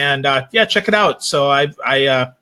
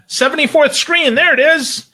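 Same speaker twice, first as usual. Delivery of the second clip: mock discovery; 11 semitones higher, 4 dB louder than usual. Real, not acted. Joking about buried app.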